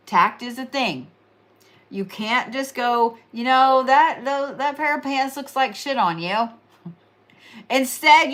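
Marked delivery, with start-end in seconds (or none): 3.3-6.5 blunt and mean. Pretend. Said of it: "There's a difference in being honest and being mean".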